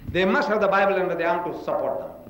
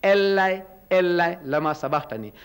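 crying out. Acted. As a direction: lightly imitate a cry from the cross. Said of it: "Jesus Christ cried out".

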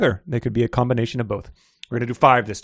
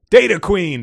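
higher-pitched, fuller gush; 5 semitones higher, 6 dB louder than usual. A narrator's reading. Huge man delighted by Midge's call, gushing. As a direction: burst out with delighted greeting. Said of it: "the huge man gushed".

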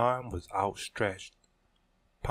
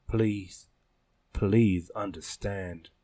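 pleading; slower than usual. Acted. Kiara pleads with friend.

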